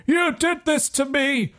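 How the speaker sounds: high, wailing threat, building; accuse, then wail out the threat; vengeful undead dummy. Acted. Dummy threatening the boy who revived it, vengeful high wail. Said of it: "points at you and says".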